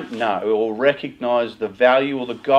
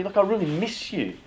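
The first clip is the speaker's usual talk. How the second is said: higher and softer, openly tender plea; sincere, softly pleading parent; vulnerable; 6 semitones higher, 6 dB quieter than usual. Shown as a demonstration. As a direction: let your guard down and tell them you miss them. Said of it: "just be vulnerable and say".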